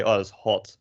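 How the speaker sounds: British "hot" with a rounded o; British short o in "hot"; British English. Shown as a demonstration. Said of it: "in British English".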